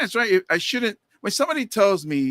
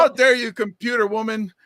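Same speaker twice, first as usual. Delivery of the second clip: high, loud feigned offence; mock outrage; 5 semitones higher, 4 dB louder than usual. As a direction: scold the computer in comic outrage. Mock outrage at car computer.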